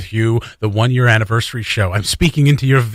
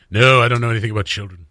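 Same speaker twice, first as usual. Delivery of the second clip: Krusty the Clown voice; 3 semitones lower, faster than usual. Acted. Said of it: "Said, said in a very cr-, Krusty the Clown voice".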